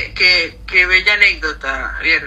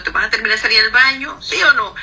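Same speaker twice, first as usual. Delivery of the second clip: reclamo desesperado, rápido y agudo; grito imitado; 5 semitones higher, 3 dB louder, much faster than usual. Retold or imitated. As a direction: imita un grito impaciente, subiendo el tono al final. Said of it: "eso era punta de grito". (grito de reclamo imitado)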